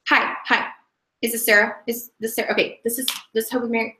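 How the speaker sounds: halting, stumbling phone call with restarts; hesitant, unpolished script reading; nervous beginner. Shown as a demonstration. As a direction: read it haltingly like a nervous first-timer. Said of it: "This is how you're probably gonna sound".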